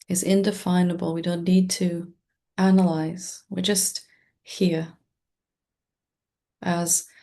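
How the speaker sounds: calm meditation guide with long, restful pauses; guided meditation. Acted. Teacher leading listeners into presence with the breath, calm guided-meditation voice. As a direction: guide listeners gently, leaving space between short phrases.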